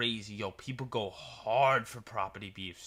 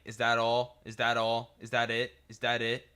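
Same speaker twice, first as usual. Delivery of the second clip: impatient drive-thru lady; 7 dB louder than usual. Retold or imitated. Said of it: "The lady kept saying".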